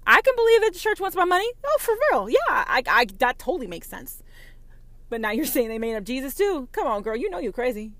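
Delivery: high, loud, fast mock-incredulous voice; mocking Christian voice. Mocking a Christian who doubts her, high squeal. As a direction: squeal it like a scandalised churchgoer. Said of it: "except for Jesus Christ".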